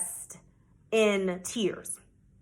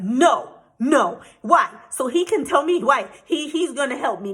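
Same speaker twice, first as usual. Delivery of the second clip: upset pleading; 3 semitones higher, 4 dB louder than usual. Retold or imitated. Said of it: "And I was like".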